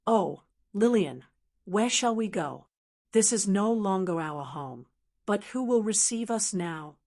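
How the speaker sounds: a hint of broken despair. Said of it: "in a tone of despair".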